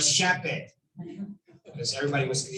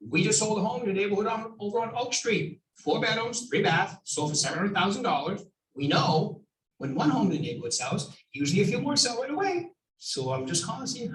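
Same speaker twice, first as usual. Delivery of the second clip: phone script demo; 3 semitones higher than usual. Shown as a demonstration. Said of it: "If you're gonna call a Just Sold".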